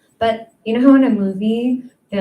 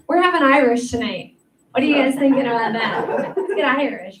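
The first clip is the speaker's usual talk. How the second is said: mock enthusiasm; 4 semitones higher, 4 dB louder than usual. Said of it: "you never hear anyone go".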